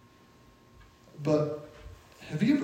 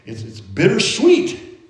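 wistful; 4 semitones higher, 5 dB louder, slower than usual. Real, not acted. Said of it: "makes me think of my children".

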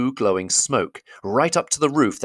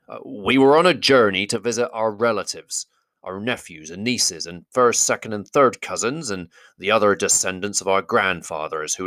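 Thorin's voice. Acted. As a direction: greet him with stiff politeness. Thorin explains.

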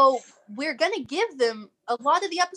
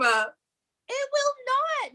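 laughing; 13 semitones higher, much slower than usual. Real, not acted. Laughing protest.

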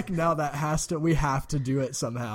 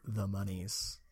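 secretive whisper; 6 semitones lower, 10 dB quieter, slower than usual. Acted. Conspiratorial aside about elf wealth.

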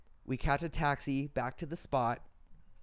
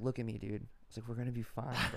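reassuring friend; 3 semitones lower, 5 dB quieter, faster than usual. Retold or imitated. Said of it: "Apto's fucking crying".

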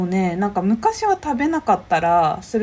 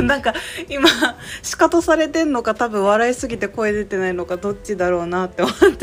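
laughing; 3 dB louder than usual. Real, not acted. Teasing about the silent laugh.

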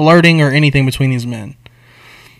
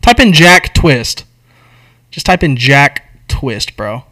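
louder, slow insistence; insistent; 4 dB louder, slower than usual. Real, not acted. Storyteller dares his friend to search the name, louder and slow. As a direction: dare him to check it.

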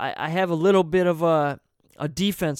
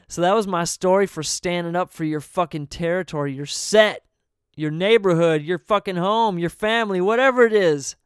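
worked up; 3 semitones higher, 5 dB louder than usual. Real, not acted. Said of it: "let me calm down".

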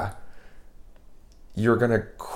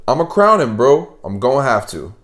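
quoting friend; 2 semitones higher than usual. Retold or imitated. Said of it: "Nels responded".

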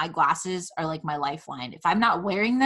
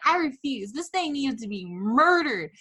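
indignant demand; 5 semitones higher than usual. Retold or imitated. Furious rant at boyfriend.

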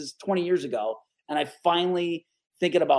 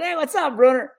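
higher, louder, bright hello; answering the boss, excited; excited greeting; 10 semitones higher, 7 dB louder than usual. Retold or imitated. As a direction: jump on the phone call.

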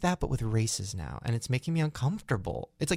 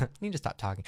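softer, laughing it out; 6 dB quieter, faster than usual. Real, not acted. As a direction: giggle through the self-reproach.

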